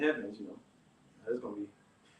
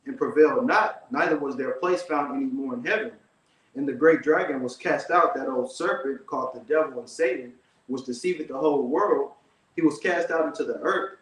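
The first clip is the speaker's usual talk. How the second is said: louder, steady Bible reading; scripture reading; 3 dB louder than usual. Acted. Reading Revelation to his brother, firm louder scripture reading. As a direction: read it out with weight, like from a pulpit. Reads Revelation twelve aloud.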